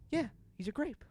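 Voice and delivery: high, chipper insistence; breezy cover-up; mock cheerful salesman; innocent pitchman. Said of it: "He was like".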